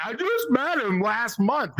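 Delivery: slow, drawn-out mock quote; mocking friend's denial. Comic mimicking a friend who disowns him, mocking. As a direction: mimic his denial, stretching it out. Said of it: "Kyle is lying to you guys when he says he's not my friend".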